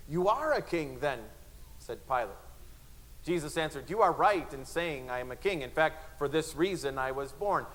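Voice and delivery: dramatic Bible reading with voiced crowd; dramatic reading aloud; scripture reading. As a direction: read the passion story with feeling. Reads Gospel passage aloud.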